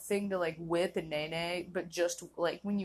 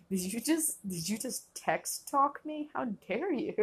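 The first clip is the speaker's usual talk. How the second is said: higher and slow, faking outrage; mock offended; 4 semitones higher, slower than usual. Friend hit with text talk, mock offended and slow. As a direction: play up the outrage at being text-talked.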